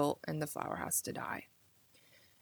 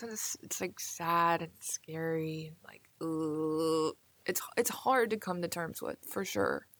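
whispering. Real, not acted. Admits mortality is scary.

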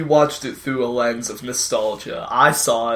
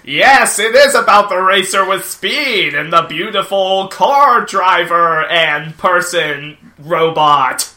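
retro TV announcer; 4 semitones higher, 5 dB louder than usual. Acted. Mock retro TV host pitch.

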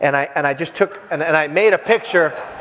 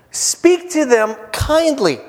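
mock kindly; 6 semitones higher, much slower than usual. Mock church-growth rule, contrasted with John.

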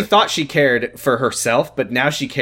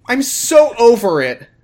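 mock sobbing; 10 semitones higher, 5 dB louder than usual. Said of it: "She started sobbing uncontrollably".

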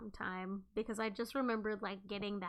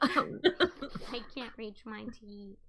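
drawn-out mocking repeat; slow laughing imitation; 5 dB louder, much slower than usual. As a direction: echo it slowly through a laugh. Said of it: "repeating friend's line".

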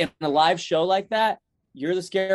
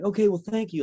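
higher, chipper thanks; acting out a happy phone goodbye; super happy; 6 semitones higher than usual. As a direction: thank them eagerly, voice lifted. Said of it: "like, super happy".

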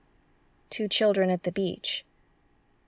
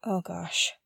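whisper; 4 semitones lower, 7 dB quieter than usual. Acted. Realizing the alarm was triggered.

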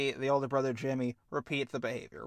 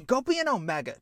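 dismissive brother; 10 semitones higher, 4 dB louder, faster than usual. Acted. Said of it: "Pushes him away and says".

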